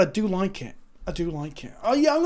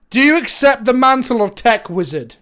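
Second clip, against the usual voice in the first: tag-less ceremony; 4 semitones higher, 7 dB louder than usual. Pretend. Mock ceremony bestowing a title.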